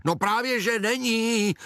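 high, blunt retort; aunt contradicting the mother, high hoot; aunt's hoot. Acted. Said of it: "houkla teta".

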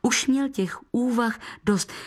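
ordinary delivery

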